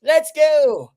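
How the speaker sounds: rally the chaps in a mock British accent; British impression. KJ rallies the fans for London, mock British accent. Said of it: "that was a good British impression".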